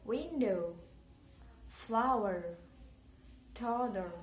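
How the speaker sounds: put-on "Window, flower, toddler", each strong at the start, falling after; stress on first syllable. Shown as a demonstration. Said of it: "usually on the first syllable".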